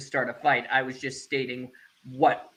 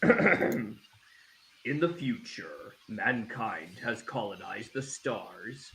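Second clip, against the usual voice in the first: put-on old sci-fi announcer; 3 semitones lower than usual. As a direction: read it like a retro space-opera promo. Reads the show's synopsis.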